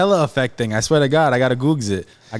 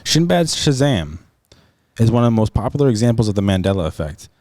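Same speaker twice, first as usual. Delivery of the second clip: even, formal article read; reading aloud; 5 semitones lower than usual. Real, not acted. Reading a search result to his friend, formal read-aloud. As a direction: read it out like a written explainer.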